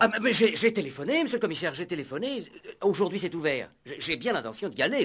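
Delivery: agitated eager protest; flustered protest. Acted. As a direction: defend yourself in a flustered rush. Inspector defends himself excitedly.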